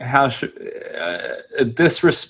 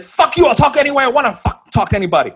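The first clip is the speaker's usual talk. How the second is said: higher, fast, half-sung put-on kid voice; singsong teen taunt; 10 semitones higher, much faster than usual. Teen taunting the manny in a fast singsong. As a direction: taunt him in a bratty singsong. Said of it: "And he's like".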